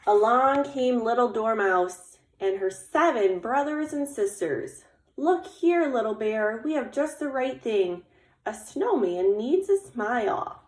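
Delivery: animated read-aloud with lifted character greeting; story narration. A narrator's reading. Little Squirrel offers eyes for the snowman, animated storytelling. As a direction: tell it to children, giving the helper a bright hello. Reads picture book aloud.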